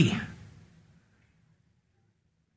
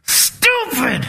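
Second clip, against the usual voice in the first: self-scolding; 3 semitones higher than usual. Retold or imitated. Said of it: "I gave up all this".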